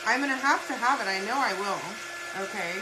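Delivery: retold freak-out. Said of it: "I'm freaking out on him".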